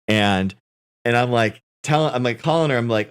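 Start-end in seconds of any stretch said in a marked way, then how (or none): none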